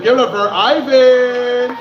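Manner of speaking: announcer build-up. Real, not acted. Host introducing next comedian.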